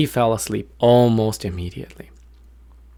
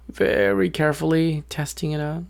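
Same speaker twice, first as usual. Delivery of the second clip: raised, tiptoeing narration; careful, tentative; 6 semitones higher than usual. A narrator's reading. Storyteller showing the bird landing very carefully, high and tentative. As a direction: draw it out gingerly, pitched up. Narrator mimics the bird's caution.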